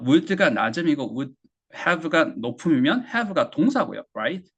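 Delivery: ordinary talk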